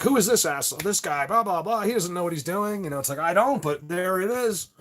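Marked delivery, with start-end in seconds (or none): 0.0-2.8 higher-pitched imitation of sceptics; mocking doubters. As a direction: mimic dismissive online critics. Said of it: "people, you know, don't believe you".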